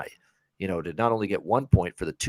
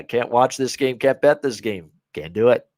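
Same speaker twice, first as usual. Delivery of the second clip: lightly mimicked coach's press-conference refusal, a bit louder; a hint of an emphatic head coach; Singletary; 2 semitones higher, 5 dB louder than usual. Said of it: "the tone of his voice when he said".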